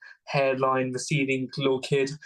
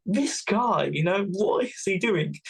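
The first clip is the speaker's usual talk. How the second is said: mock disbelief; 6 semitones higher, slower than usual. Drivers' baffled reaction, acted.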